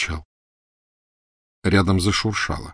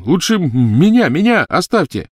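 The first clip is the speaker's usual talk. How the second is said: desperate pleading; 10 semitones higher, 6 dB louder than usual. Acted. Ron begs to take him instead.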